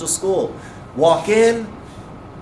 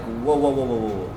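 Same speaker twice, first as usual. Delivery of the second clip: low, soft string of whoas, sinking away; cautious disbelief; 6 semitones lower, 6 dB quieter than usual. Retold or imitated. Bosses halting his news, hushed disbelief. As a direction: imitate someone gently halting the speaker.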